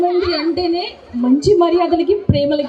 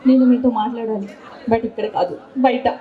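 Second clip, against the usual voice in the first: lower, serious film-dialogue delivery; a lightly acted heroine line, spoken a bit lower; heroine's movie line; 6 semitones lower than usual. Shown as a demonstration. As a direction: say it like the heroine pulling him aside. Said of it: "ఇదే dialogue".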